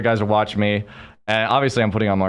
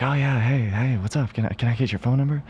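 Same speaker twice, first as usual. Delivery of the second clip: mock flirty pick-up line, pitched up; casual chat-up; 6 semitones higher than usual. Friend chatting up a bartender lady, mock flirty. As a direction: imitate a guy smoothly asking for a number.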